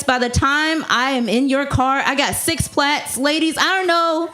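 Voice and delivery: ordinary talk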